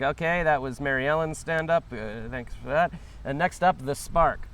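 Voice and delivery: lightly voiced stand-up MC; a hint of club announcer, lifting on the intro; comedy show host. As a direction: introduce the next act from the stage. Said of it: "Imagine I'm at a comedy show and somebody's like".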